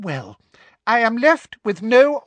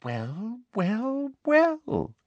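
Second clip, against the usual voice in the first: triumphant Umbridge; much slower than usual. A narrator's reading. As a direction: relish each word, rising higher each time. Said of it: "looking triumphant".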